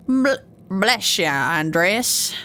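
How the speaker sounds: slow, lightly put-on pirate greeting. Monk greets Andreas, lightly voiced pirate. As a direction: try out a pirate voice. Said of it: "let's give him a pirate t-, voice".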